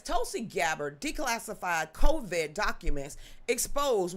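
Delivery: emphatic headline reading; article read-aloud. Real, not acted. Reading Dave's article to viewers, emphatic read-aloud. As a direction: read it out with punched key words.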